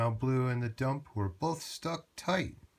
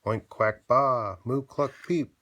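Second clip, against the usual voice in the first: joyful barnyard cheer; animal chorus; 7 dB louder than usual. Acted. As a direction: whoop out each animal noise.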